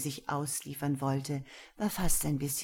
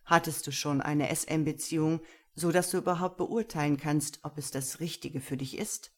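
stern master. Acted. Gero interrogates Lena, stern. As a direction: question her coolly.

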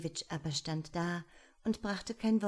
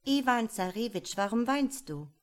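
higher, caring frog voice; the frog bride asking; 4 semitones higher, 5 dB louder than usual. Acted. Frog asking her weeping husband, lightly voiced. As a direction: ask gently, a bit raised.

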